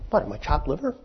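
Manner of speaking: high, squeaky, put-out whine; Cain's indignant protest. Retold or imitated. Cain whining to God that he is slighted, in a high indignant squeak. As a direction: play the slighted firstborn, voice jumped way up. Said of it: "thinking what, right?".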